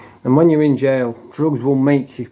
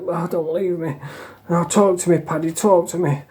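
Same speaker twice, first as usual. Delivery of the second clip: imitating crying; 4 semitones higher than usual. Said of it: "he was on the top bunk crying".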